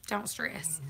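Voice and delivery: whispered reassurance; unvoiced hush, then repeat it aloud. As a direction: breathe it out soft and hushed. Repeated soothing to chat.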